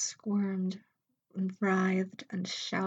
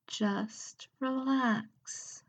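slow, calming mistress voice; drawn out and reassuring; soothing mistress; 4 semitones higher, much slower than usual. Acted. Mistress soothes nervous Emma.

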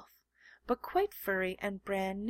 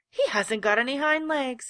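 louder, higher call; 4 semitones higher, 9 dB louder than usual. A narrator's reading. Wild rabbit calls out his discovery, loud. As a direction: call it out to the others. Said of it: "he called out".

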